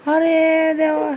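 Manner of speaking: slow, drawn-out laugh through the words; laughing exclamation. Real, not acted. Laughs watching kids stuff food.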